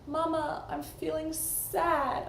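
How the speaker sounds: put-on high, slow small-child voice; a young boy telling mama he's sad; little son's voice. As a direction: son telling his mother, in a high child's voice. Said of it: "he said to me".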